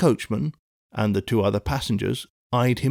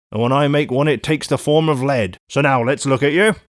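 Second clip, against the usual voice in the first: raised, warning guard voice; lightly voiced stern guard; 3 semitones higher, 3 dB louder than usual. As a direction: warn him off with menace.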